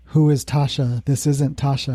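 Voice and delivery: eerie, flat monotone, lightly voiced; low monotone voice. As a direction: say it like something else is speaking, flat. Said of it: "she said in a low monotone voice".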